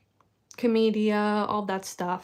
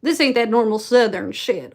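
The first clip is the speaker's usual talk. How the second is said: shaky attempt at a Southern accent; Southern Belle accent. Shown as a demonstration. Student unsure of the dialect, trying a Southern accent. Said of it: "how did I do the Southern Belle".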